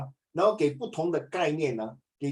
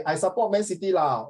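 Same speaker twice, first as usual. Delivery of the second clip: casual Singlish reply; relaxed Singlish with the lah tacked on; Singlish accent. Retold or imitated. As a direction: answer in everyday Singlish. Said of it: "in very Singlish".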